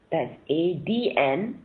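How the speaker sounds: each letter said slowly and apart; spelled out slowly. Shown as a demonstration. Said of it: "not A N D".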